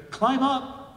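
high, loud shout. Retold or imitated. Helicopter crew shouts to the man through a loudspeaker, loud high call. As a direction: bellow it down from above. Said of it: "they shout through the loudspeaker".

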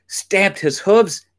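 slow, high, dramatic beat; heightened storyteller emphasis; emphatic narration. A narrator's reading. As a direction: stretch it out for suspense. Storyteller acting out the stamping.

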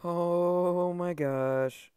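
loud, high, long-drawn exclamation; freaking out. Real, not acted. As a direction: stretch it out in amazed disbelief. Freaking out over the knife.

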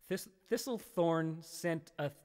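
"Thistlethorn" sounded out slowly, stumbling; slow careful tongue twister. Shown as a demonstration. Streamer struggles with a viewer's tongue twister, stumbling slowly. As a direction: pick through "Thistlethorn sent a" slowly. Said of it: "Try it. Try it".

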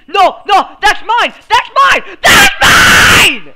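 rising high whiny shout; possessive whining. Real, not acted. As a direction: wail from pleading to yelling. Loot taken in game.

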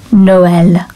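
"Noël" split clearly into no-EL; "Noël" as two distinct syllables; two beats. Shown as a demonstration. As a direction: sound both vowels of "Noël" separately. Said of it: "two beats to that word".

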